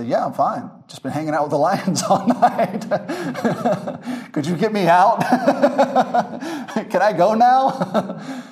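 chuckling through a casual report from the lions' den; Daniel laughing from the den. Retold or imitated. Daniel calls up to the king, laughing. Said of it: "he hears Daniel call back and say".

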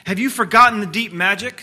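witch voice. A narrator's reading. The witch challenges Aslan.

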